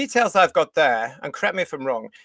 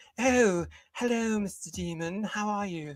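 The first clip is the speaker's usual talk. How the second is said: soft, mocking, damsel-style put-on flirty voice; 4 semitones higher, 7 dB quieter than usual. A speaker mocks how a woman in a story greets a demon, mock-flirty impression. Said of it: "She's all like".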